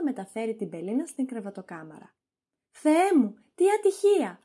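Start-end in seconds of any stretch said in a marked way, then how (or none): 2.7-3.4 high, loud mock shock over the death; fake alarm. Toinette announces master's death. 3.5-4.4 "τι ατυχία" thrown out high and loud, overplayed; hammed-up dismay. Toinette fakes grief for Argan.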